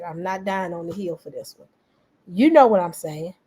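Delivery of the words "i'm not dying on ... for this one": softer, tired letting go; quiet resigned. Retold or imitated. Imitating her quietly giving up the fight, softer. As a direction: let it drop, done with it. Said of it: "And she just said".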